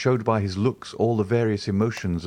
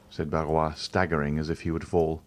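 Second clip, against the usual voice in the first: usual speaking voice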